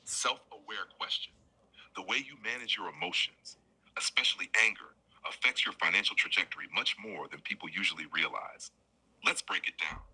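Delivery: calm assistant voice reading an answer; measured robotic life-coach read. Acted. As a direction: read it like a smooth chatbot narrator. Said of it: "ang galing ng boses niya".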